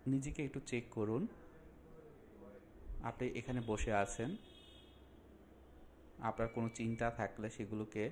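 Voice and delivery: measured instructions with long pauses; unhurried meditation guide, phrase by phrase; guided relaxation. Acted. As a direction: calmly guide the listener into a breathing exercise.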